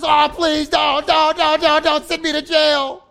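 high, loud panicked pleading; mock-beg for mercy, repeating don't; begging debtor. Debtor pleads with master, loud hammed-up begging. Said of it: "And the guy says".

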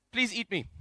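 understated comic punchline; resigned plea. Acted. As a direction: give in drily, as the joke's mouse. Punchline, mouse now begs opposite.

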